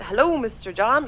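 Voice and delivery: "Hello, Mister John" stretched slowly with a rising end; a breezy, drawn-out "Hello, Mister John"; retelling the blunder to her boss, slow and lilting; slow sing-song greeting. Retold or imitated. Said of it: "but I went".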